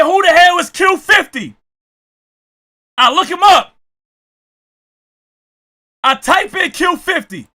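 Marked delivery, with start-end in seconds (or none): 0.0-1.6 retold exclamation. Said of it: "So I said".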